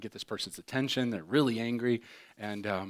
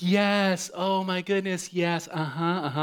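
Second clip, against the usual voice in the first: polite phone voice; 7 semitones higher, 3 dB louder, slower than usual. Retold or imitated. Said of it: "She's like".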